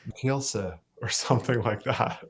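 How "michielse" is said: Michielse with a soft ending, no final n; attempted Flemish pronunciation. Shown as a demonstration. Singer tries to butcher his ancestral name, Michielse Flemish-style. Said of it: "They pronounce it like".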